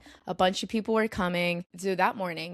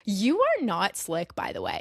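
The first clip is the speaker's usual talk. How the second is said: sassy callout. Retold or imitated. Sassy comeback to bragging intern.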